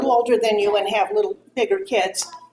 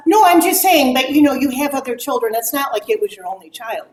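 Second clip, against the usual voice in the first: imitated defensive mother. Acted reply of other mother.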